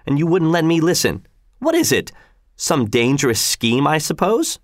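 a hint of a wife sniffing out a secret; suspicious wife. Wife suspects a plot.

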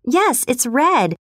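mild resigned sigh, drawn out. Acted. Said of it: "she sighed".

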